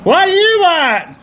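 high, slow mock French accent; hammed-up French accent. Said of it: "You should do that accent properly".

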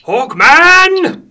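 high, drawn-out movie shout; film-quote battle cry. Acted. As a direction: call it out like a rallying cry. Film quote called out in game.

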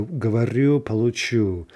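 говорю and получу stressed on the final vowel; end stress. Shown as a demonstration. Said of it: "ya form is going to be in stress".

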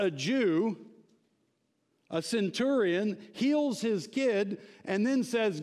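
emphatic, energized sermon storytelling; animated preaching. Real, not acted. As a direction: tell the Bible story with preacher's zeal.

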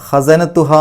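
slow ഖസനത്തുഹാ with a long final hā; elongated vowel. Shown as a demonstration. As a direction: stretch out the end of ഖസനത്തുഹാ. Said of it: "ആ നീട്ടൽ". (ഖസനത്തുഹാ എന്നതിലെ ഹാ നീട്ടുക)

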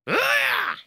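very high attack yell; battle scream. Acted. Fighter hitting an opponent, very high battle scream. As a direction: scream with the effort of the strike.

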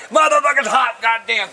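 raging as garbage juice spills; angry outburst. Real, not acted. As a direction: let it rip at the spilled garbage. Garbage bag bursts, he rages.

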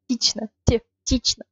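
тично said "tee-chna"; almost-E vowel. Shown as a demonstration. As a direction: say Ти-, тично with a clear ee sound. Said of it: "It's like almost E".

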